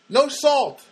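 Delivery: the staffer repeating the order in disbelief; mock puzzled question. Server baffled by no salt.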